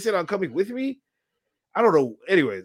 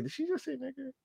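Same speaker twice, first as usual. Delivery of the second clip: stunned whisper-like quote; 11 semitones higher, 15 dB quieter, faster than usual. Retold or imitated. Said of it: "I'm like".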